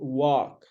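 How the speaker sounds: "work" with an open vowel, like walk; mispronounced work. Shown as a demonstration. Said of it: "it's not work".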